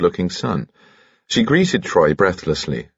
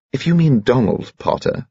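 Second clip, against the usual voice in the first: higher-pitched warning challenge; dangerous; 8 semitones higher than usual. A narrator's reading. Daughter defending a young man to her father, dangerously. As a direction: challenge him with a touch of danger. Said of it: "said Bridget dangerously".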